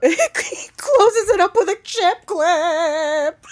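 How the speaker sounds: slow words broken by laughter; laughing while talking. Real, not acted. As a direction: choke the line out through laughs.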